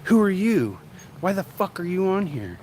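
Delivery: high, loud mock outburst at viewers; high mock rant at her chat; imitating the streamer. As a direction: squeal it out as her, rudely. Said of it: "she'll be like".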